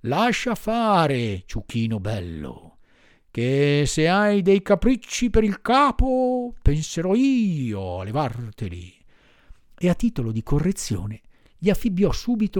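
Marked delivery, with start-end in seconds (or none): 0.0-9.1 threatening master. Acted.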